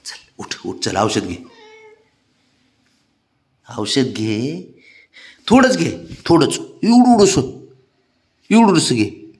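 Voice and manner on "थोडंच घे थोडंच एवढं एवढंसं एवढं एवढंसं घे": high pleading coo. Real, not acted. Owner pleading with pet for a little sip, high coo. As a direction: beg the pet sweetly for a tiny sip.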